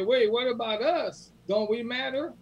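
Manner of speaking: mock-plaintive sheep asking to matter. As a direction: plead as the left-out sheep. Sheep voiced in parable.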